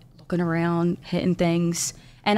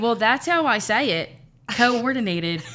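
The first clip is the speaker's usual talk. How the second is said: laughing; 4 semitones higher than usual. Retold or imitated. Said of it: "And I was like".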